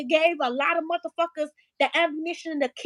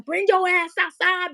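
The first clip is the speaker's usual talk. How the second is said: louder retold challenge, slightly raised pitch; re-enacted angry demand; 3 semitones higher, 5 dB louder than usual. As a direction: call someone out to fight, retold. Re-enacts yelling at the window.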